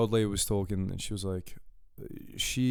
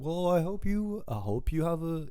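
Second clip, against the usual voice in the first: put-on higher-pitched go at a Norwegian accent; rough imitation of a Norwegian accent; imitated Norwegian accent; 5 semitones higher than usual. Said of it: "she had a better accent".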